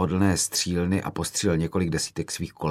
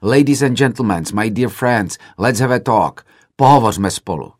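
shouted appeal; 3 semitones higher, 6 dB louder than usual. Retold or imitated. Filmmaker shouting to students leaving the hall, loud appeal. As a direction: raise the voice to stop the crowd from walking out. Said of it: "Křikl jsem".

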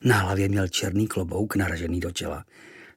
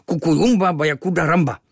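frowning grumble; 7 semitones higher, 7 dB louder than usual. A narrator's reading. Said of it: "Mračil se Kvíkvék".

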